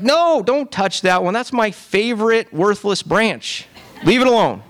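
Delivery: high-pitched whiny pleading to God; whiny protest. Pretend. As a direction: whine like a child guarding a toy. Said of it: "we're like".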